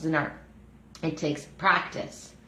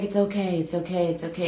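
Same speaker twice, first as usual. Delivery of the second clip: reassuring. Retold or imitated. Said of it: "she was like".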